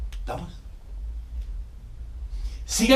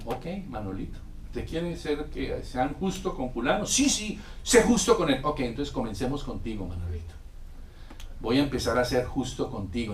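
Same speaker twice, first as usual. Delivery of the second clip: lower, softer voice of God; calm God voice; 4 semitones lower, 5 dB quieter than usual. Retold or imitated. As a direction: answer him with a knowing calm. God answering Manolito. (voz de Dios tranquila, más grave y suave)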